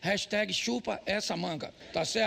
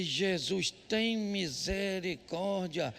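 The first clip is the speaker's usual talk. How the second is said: mock resigned plea; 3 semitones lower, 3 dB quieter, much slower than usual. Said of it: "Eu falei".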